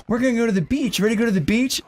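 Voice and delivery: chirpy parent calling out. Retold or imitated. Family voiced in story.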